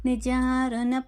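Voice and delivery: slow, syllable by syllable chant of the name; slow devotional name recital; slow recitation. Shown as a demonstration. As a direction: recite each syllable clearly and unhurried. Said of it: "ముందుగా శ్లోకంలో".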